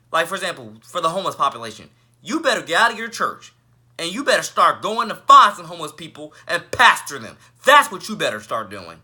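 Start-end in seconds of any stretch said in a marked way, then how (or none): 2.2-9.0 firm, punchy newscaster delivery; news anchor voice. Acted. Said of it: "especially in that type of anchor type voice".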